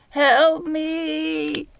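high trapped fairy calling for help; high fairy cry. Acted. Trapped fairy Belle calls to Midge for help, high. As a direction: cry out small and high from inside the cage. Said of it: "a high, gravelly voice".

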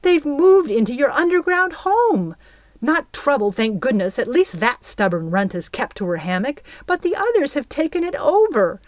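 high, loud wail of complaint. A narrator's reading. Belle wailing to absent Peter about the girls. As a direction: pour out the grievance to Peter. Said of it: "she wailed".

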